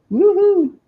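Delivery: a big high cheer, loud; excited whoop. Real, not acted. Thrilled at the gold paint, gives a loud high whoop.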